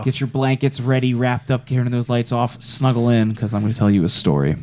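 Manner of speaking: creepy campfire story voice. Pretend. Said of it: "you're gonna do your creepy voice".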